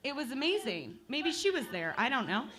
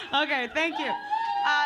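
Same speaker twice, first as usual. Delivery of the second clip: laughing; 5 semitones higher, slower than usual. Real, not acted. Laughing at a heckler.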